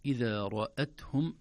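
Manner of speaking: إذا رأتهم with thin hamza; recitation. Shown as a demonstration. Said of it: "reciting the verse".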